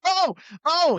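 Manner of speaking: high, loud alarmed yelps; retold panicky cry; mock panic. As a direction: act out a sudden urgent alarm. Acting out sudden bathroom panic.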